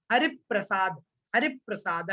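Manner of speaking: हरि प्रसाद as "harip-prasad", low-pitched model; joined conjunct. Shown as a demonstration. Teacher drilling pupils twice, हरि प्रसाद joined as harip-prasad. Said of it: "इस प्रकार से आप इसका उच्चारण करेंगे".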